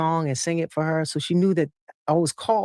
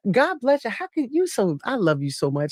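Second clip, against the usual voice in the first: talking to mom; 4 semitones higher than usual. Retold or imitated. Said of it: "I'm like".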